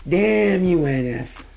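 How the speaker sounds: amazed. Real, not acted. Reaction after the verse ends.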